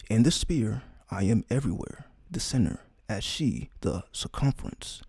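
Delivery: measured recital with long pauses; solemn scripture reading. Acted. Reading a sacred chapter to listeners, solemn and measured. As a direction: read it out deliberately, phrase by phrase. Reads a sacred text aloud.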